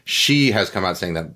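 numb mouth, slightly slurred; numb from the dentist. Real, not acted. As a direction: talk through a numb mouth after the dentist. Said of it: "My, my mouth is numb 'cause I just came from the dentist".

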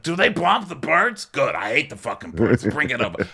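hammed-up rowdy customer, pitch jumping high; Frank. Frank reacting to the drink's name, excitable mock voice. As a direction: demand drinks in an excitable put-on voice. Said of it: "He's like".

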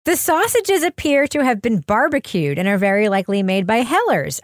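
lightly dramatized news report; mock news read. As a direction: read a silly crime story as serious news.

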